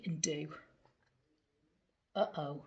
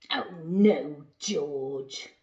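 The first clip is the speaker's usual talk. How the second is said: dismayed oh no; 4 semitones lower, 9 dB louder, slower than usual. Acted. Owner scolding George.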